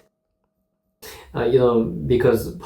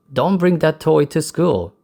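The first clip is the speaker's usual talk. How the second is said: lightly acted teacher, pitched higher; teacher's admonition; 5 semitones higher than usual. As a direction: quote a teacher's warning with a hint of role-play. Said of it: "My teacher said".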